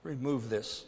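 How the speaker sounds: soft pleading please, slow; quiet begging. Retold or imitated. Preacher voices Paul begging God, soft plea. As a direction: murmur it like a tired plea. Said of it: "begged God".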